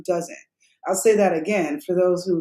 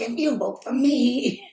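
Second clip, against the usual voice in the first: slow, softer mock promise; imitating the mayor; 3 semitones higher, 4 dB quieter, slower than usual. Mocking Mayor Bass's campaign promise, slow and soft. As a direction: lightly mimic a politician's empty pledge. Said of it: "She's like".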